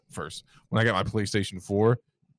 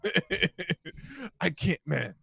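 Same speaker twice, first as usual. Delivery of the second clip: laughing, can't finish; giggling through it; 8 semitones higher, 3 dB quieter, much slower than usual. Real, not acted. Breaks up laughing mid-sentence.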